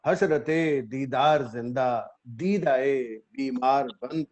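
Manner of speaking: measured ghazal recital with held pauses; mushaira recitation. Acted. Poet opens a ghazal before appreciative listeners, mushaira recitation. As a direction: recite the couplet phrase by phrase.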